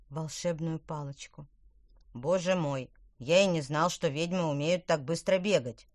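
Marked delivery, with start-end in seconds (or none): 2.1-5.9 gasping the words out; breathless after running; out of breath. Acted. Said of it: "с трудом выговорил задыхающийся тыквер".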